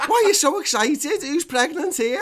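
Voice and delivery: high, loud mock outrage, laughing; baffled dad. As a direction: play the bewildered dad, half laughing. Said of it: "he's like".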